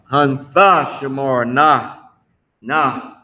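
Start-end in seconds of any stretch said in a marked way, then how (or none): 0.0-2.0 slow "Hun Thashamarna", leaning on Tha; corrective pronunciation. Shown as a demonstration. Teacher telling a student no Y, slow "Hun Thashamarna". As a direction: model "Hun Thashamarna" slowly, no Y. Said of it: "Nope, no Y".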